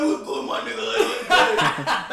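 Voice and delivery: rough, drawn-out rapper impression; hammed-up gruff greeting, loud. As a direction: imitate a friend's changed voice as a rough rapper. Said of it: "why the fuck is D M X talking to me?".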